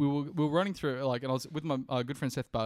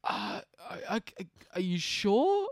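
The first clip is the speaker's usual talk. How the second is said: panicked stammer; 5 semitones higher than usual. Retold or imitated. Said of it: "And in my panic there".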